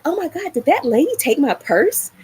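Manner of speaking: sudden panic that the purse was taken; alarmed gasp. Retold or imitated. Realising purse is gone.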